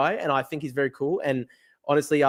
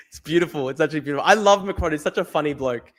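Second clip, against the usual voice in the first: normal talking voice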